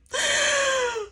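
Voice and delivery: very high dramatic gasp; a hammed-up high gasp of dread; mock gasp. Lyft driver wants to talk.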